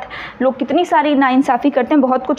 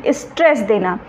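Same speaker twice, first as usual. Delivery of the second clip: स्ट्रेस stretched out for emphasis; drawn-out stress; 4 semitones lower than usual. Shown as a demonstration. Teacher showing students what stress means, drawn-out emphasis. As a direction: draw out the word स्ट्रेस. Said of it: "मैं बहुत खींच के बोलती हूँ".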